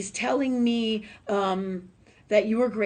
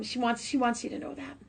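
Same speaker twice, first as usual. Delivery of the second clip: emotional; 3 semitones higher, 5 dB quieter than usual. Real, not acted. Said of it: "I'm getting all emotional".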